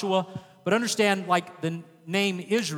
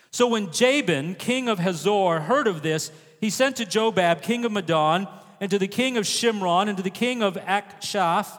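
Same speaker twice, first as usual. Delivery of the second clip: scripture reading aloud; 3 semitones higher than usual. Acted. Reads the Bible passage aloud.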